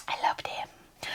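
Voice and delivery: slow, whispered confession of love; hushed adoration. Real, not acted. Vlogger gushing over favourite books, hushed adoration.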